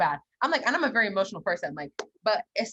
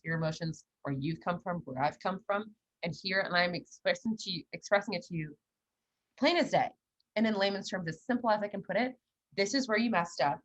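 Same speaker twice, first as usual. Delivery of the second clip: lightly acted measured explanation, a little lowered; mildly analytical Capricorn; 3 dB quieter than usual. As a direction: lay it out point by point, composed. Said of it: "especially a Capricorn and Aquarius moon".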